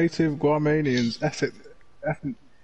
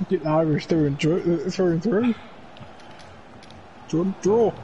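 put-on a weak stab at an Irish accent; lightly put-on Irish lilt; bad Irish accent. Joking about an Irish player, bad Irish accent. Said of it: "That was the worst Irish accent".

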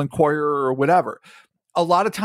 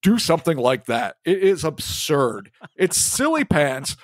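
mock Russian accent. Mocking the Washington Post in a put-on Russian accent. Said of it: "in my greatest, you know, Russian accent".

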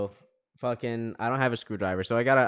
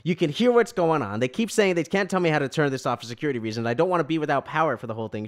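retold mild exasperation, raised at the start; getting angrier; 2 semitones higher, 3 dB louder than usual. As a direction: argue with the agent, mildly angry. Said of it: "getting angrier and angrier".

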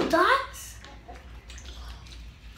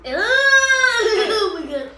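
laughing cry; 3 semitones higher, much slower than usual. Real, not acted. Burning mouth laughter.

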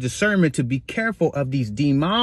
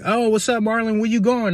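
imitating coworkers; 6 semitones higher than usual. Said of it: "they're like".

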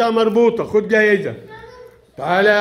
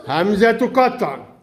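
slowed down and drawn out for the class; slow teaching repeat; slower than usual. Shown as a demonstration. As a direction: stretch each word slowly so the children hear it. (تكرار بطيء للتوضيح)

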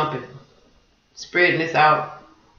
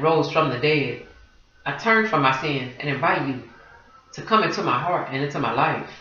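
prayer. Shown as a demonstration. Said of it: "I'll say it, and you can repeat it after me".

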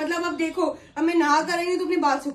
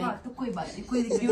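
laughing it off; 5 semitones lower, 6 dB quieter than usual. Acted. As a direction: laugh the insult away. Brushing off the pimples jab.

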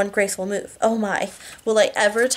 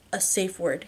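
softer, gentle aside; softly; 6 dB quieter than usual. Acted. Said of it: "he says softly".

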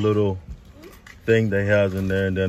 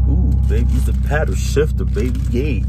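excited; 3 semitones higher than usual. Real, not acted. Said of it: "I'm super excited".

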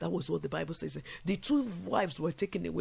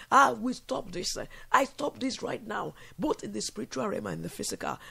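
bold decree; 3 semitones higher than usual. Shown as a demonstration. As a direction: declare it like a command. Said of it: "You begin to say".

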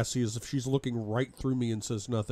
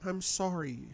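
whisper; 6 semitones higher, 5 dB quieter than usual. Acted. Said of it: "she whispers".

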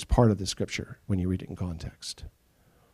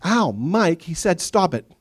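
louder fake complaint; mock whiny kid; 7 semitones higher, 4 dB louder, slower than usual. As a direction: tattle with a wail. Kid fakes again.

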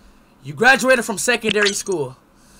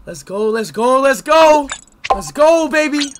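louder, higher cheering; hype cheer; 9 semitones higher, 9 dB louder, slower than usual. Real, not acted. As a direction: pump yourself up. Gamer hypes up.

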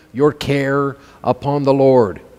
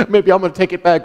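laughing; 3 semitones higher, much faster than usual. Acted. Laughs mid acted prayer.

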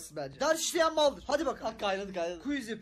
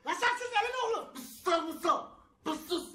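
fighting back giggles, voice pitched up; trying not to laugh; stifled giggles; 9 semitones higher, 3 dB louder than usual. Real, not acted. Stifled laughter mid-sketch. (gülmesini bastırarak)

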